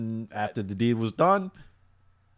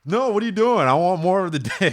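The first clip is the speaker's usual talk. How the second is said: high, louder mock begging; high whiny girl; 8 semitones higher, 8 dB louder than usual. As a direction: beg in a high girly whine. Girl begs after being locked in.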